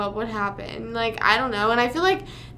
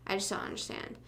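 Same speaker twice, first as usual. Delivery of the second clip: whispered, much softer, no voice; half-joking whispered repeat; 3 semitones lower, 12 dB quieter than usual. Shown as a demonstration. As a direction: breathe the words out under your breath.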